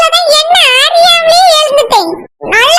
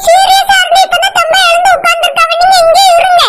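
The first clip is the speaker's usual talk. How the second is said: urgent pleading; 2 semitones higher than usual. Acted. Pleading she not leave.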